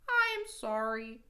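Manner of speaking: high, winded Frog apology; a touch of storybook breathlessness; gasping. A narrator's reading. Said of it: "gasped Frog".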